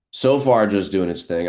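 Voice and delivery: sudden burst high and loud; excited. Real, not acted. Trader watching gold move live, excited. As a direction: pitch leaps up on "so far".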